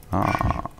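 ordinary delivery

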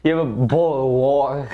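put-on British accent. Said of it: "British people be like".

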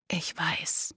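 very soft, low whisper; hushed, voiceless murmur; quietly repeated. A narrator's reading. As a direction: whisper it to comfort her. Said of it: "wiederholte er leise".

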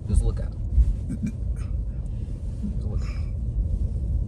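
slow whispered aside; slow conspiratorial whisper. Real, not acted. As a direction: hiss it so he won't hear. Staring down driver beside them.

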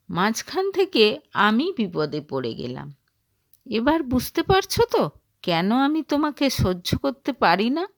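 mild acted anger, quick at first; angry scolding. Husband scolding his wife over missing papers, mildly angry. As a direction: scold her, a touch hammed. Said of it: "হঠাৎ চিৎকার চেঁচামেচি শুরু করে দিল".

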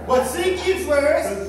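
loud, slow, forceful call; manly call. Shown as a demonstration. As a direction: proclaim it like a man. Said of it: "Get the ten out your voice".

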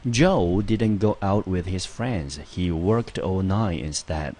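Joe didn't go out with his friends, read very slowly and clearly; slow example read. Shown as a demonstration. Teacher reading the example sentence to students, slow and clear. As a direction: read it slow and deliberate for learners. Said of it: "我们接下来看第二个例句".

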